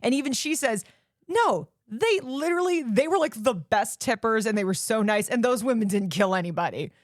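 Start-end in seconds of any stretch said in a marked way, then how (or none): 1.3-6.9 waitress voice. Retold or imitated. Voicing the waitress defending them.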